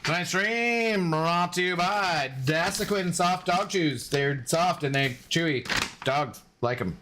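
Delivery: slow, hammed-up sponsor announcer; mock ad read. Streamer jokingly reads a fake sponsor spot, mock announcer. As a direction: sell the chews like a cheesy ad.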